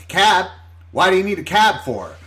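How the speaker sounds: baffled bar lady. Retold or imitated. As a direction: imitate a woman who doesn't get it.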